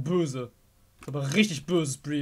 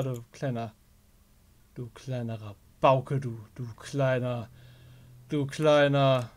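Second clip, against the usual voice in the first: teasing; 3 semitones lower, slower than usual. Real, not acted. Teasing Foxy.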